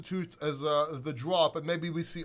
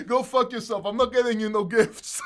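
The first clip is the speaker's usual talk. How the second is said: mock spiteful friend; 3 semitones higher, 5 dB louder than usual.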